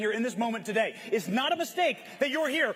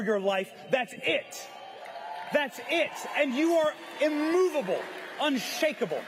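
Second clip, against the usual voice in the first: rousing speech. Shown as a demonstration. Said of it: "That's the speech I wish I could have given".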